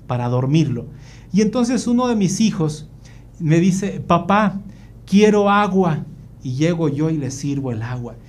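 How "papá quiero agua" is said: lightly voiced child, higher pitch; child's request. Son asking his father for water, lightly childlike. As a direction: ask dad like a small child, lifted voice.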